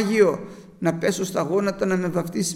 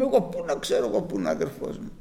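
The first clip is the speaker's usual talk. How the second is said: quick, lower, shrugging reply; evasive Cain; 9 semitones lower, 5 dB quieter, faster than usual. Acted. Cain brushes off God's question, fast and low. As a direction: rattle it off fast and low, dodging.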